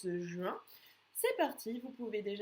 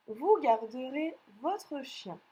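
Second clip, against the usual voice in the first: slow dictation; 4 dB louder, slower than usual. Shown as a demonstration. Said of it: "C'est parti pour la dictée".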